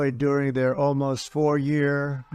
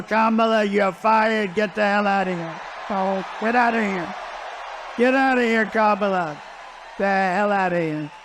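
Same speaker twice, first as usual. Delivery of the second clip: mock firing shout; 3 semitones higher than usual. Voter firing the vice president, shouting. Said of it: "you have to stand up and you have to tell Kamala".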